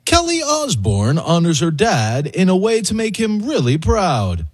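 TV anchor read with a dramatic pause; news anchor voice. Shown as a demonstration. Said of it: "Let me try one".

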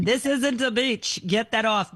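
put-on Italian accent. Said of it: "what's your Italian accent".

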